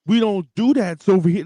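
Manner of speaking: a lightly put-on street accent, imitating Logan Paul's bad black accent; mock the fake black accent, homie-style. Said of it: "that's literally what you sound like".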